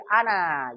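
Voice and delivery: "ana" with a long final a, as said alone. Shown as a demonstration. Teacher showing "ana" read at a pause. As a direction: stretch the last a of "ana". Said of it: "Kalau seandainya dia berhenti sendiri".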